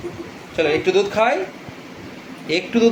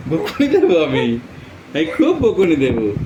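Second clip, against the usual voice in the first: mock scolding; 3 semitones lower, slower than usual. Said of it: "আমি কিন্তু বকুনি দেব".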